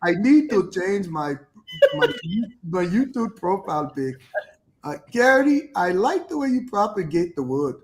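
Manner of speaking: a loose African accent put on, laughing through it; reading the chat line in Daylor's voice, imitating his African accent. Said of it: "I'ma read it like Daylor".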